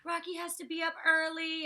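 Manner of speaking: high whiny imitation of upset housemates; put-on upset pleading, run together; mock crying complaint. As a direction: mimic a tearful guilt trip in a high voice. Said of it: "They start crying, saying".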